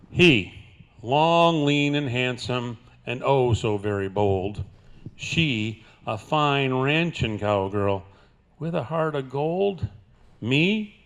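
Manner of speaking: cowboy poem recitation; playful rhyming delivery; cowboy twang. Acted. Love poem recited to audience.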